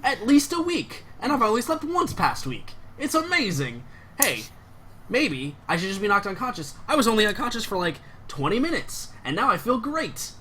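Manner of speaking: overjoyed about being knocked out; giddy. Acted. Guard gushes about his sleep.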